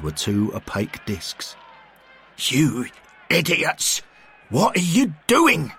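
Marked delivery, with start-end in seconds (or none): 2.4-5.7 higher, loud indignant shout; angry McBain. A narrator's reading. McBain shouts at Derek and Bill from the mud. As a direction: snap at the two fools.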